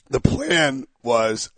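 hoarse voice gives out; voice cracking. Real, not acted. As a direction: voice breaks on the word. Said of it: "yikes, really did lose my voice".

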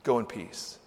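softly voiced words of forgiveness; low, hushed and tender; gentle pronouncement. Jesus sends someone away forgiven, gently.

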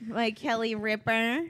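slow mock Brooklyn "Ripper"; Brooklyn accent. Teasing mom about her accent, mock Brooklyn pronunciation. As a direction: imitate a Brooklyn mom naming Kelly Ripper. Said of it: "Brooklyn accent".

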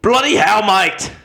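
loud, high Scottish-accent exclamation; bad Scottish accent. Shown as a demonstration. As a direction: shout it in a hammed-up, unconvincing Scottish accent. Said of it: "wanna hear my best Scottish accent".

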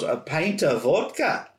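put-on slow Scottish-accented echo, rising like a question; imitated Scottish accent. Glasgow clerk echoing a tourist's vodka order, imitated Scottish accent. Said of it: "she was mocking the way that I talked".

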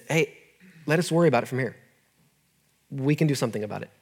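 unhurried, measured, settling someone down; calm. Retold or imitated. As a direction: imitate a medic calmly taking over. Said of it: "the E M T calmly said".

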